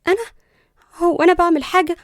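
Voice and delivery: high, put-on innocent protest; fake innocence. A narrator's reading. Cousin denying any wrongdoing, falsely innocent. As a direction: act as if butter wouldn't melt. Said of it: "ببراءة مصطنعة".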